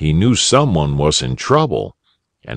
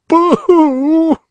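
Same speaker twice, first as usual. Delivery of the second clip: a high, hammed-up storybook boo-hoo; mock boo-hoo sob; 5 dB louder than usual. A narrator's reading. Lost boy wailing that he will be late, a hammed-up high boo-hoo. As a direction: wail it like a cartoon child. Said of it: "he was crying".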